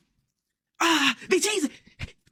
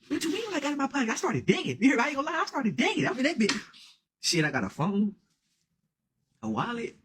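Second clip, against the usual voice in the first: softer, higher, hurried under the breath; nervous; 6 semitones higher, 7 dB quieter than usual. Retold or imitated. Scared guy digging his pockets, soft and high. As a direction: mumble it nervously while digging.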